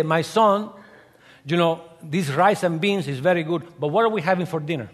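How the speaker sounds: lightly voiced Cuban father; a hint of the food-loving dad; mild imitation of dad asking about dinner; father's voice.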